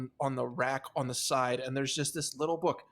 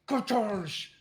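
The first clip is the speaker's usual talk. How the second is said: higher mouth-made crash; imitated door crash; 6 semitones higher than usual. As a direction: mimic a door bursting off its hinges. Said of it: "you just hear".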